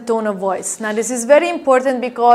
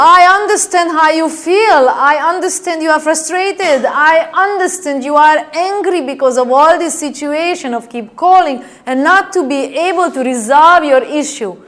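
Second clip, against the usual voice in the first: firm, louder reassurance to an angry caller; emphatic, higher understanding tone; acknowledging; 4 semitones higher, 4 dB louder than usual. Shown as a demonstration. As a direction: show the customer you hear them. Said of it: "So what do you say?".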